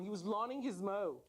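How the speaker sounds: chuckling through a tongue twist; laughing at the slip. Real, not acted. Speaker laughing at his own mixed-up words.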